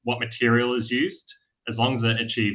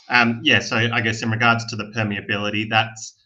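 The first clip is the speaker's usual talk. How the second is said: louder, projecting over a bad line; speaking up; 4 dB louder than usual. Real, not acted. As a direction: speak up so the room can hear. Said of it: "We can't hear you, so if you could speak up".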